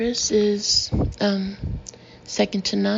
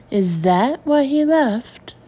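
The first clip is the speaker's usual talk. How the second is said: higher, louder, slow disbelief; aghast; 4 semitones higher, 6 dB louder, slower than usual. A narrator's reading. Samantha to Guy, aghast and louder. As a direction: let the horror land slowly.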